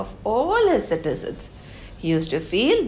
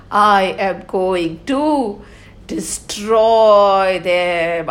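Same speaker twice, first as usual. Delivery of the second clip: menacing villain; 5 dB louder than usual. Acted. Kali threatening the cow and bull, lightly voiced menacing villain. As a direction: draw out the threat like a storybook villain.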